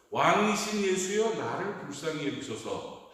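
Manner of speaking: understated retold shout for help; retold crying out. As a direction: imitate a beggar calling out for mercy. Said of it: "하고 소리를 질렀습니다".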